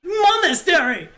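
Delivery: high, exuberant innkeeper calling out in broken English; Yuli. Acted. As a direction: holler a cheery welcome in a high, accented character voice. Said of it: "Yuli leans out from his inn and shouts".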